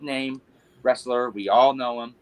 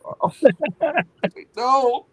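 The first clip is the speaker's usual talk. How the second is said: laughing no; 10 semitones higher, 8 dB louder than usual. Retold or imitated. Retold panic at the trainer.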